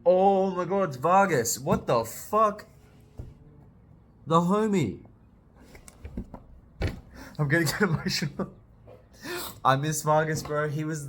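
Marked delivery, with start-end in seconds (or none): 0.0-8.5 higher and louder, a joyful shout of recognition; thrilled outburst. Real, not acted. Fan spots Vargas on the page, thrilled loud outburst. Sees his favourite character again.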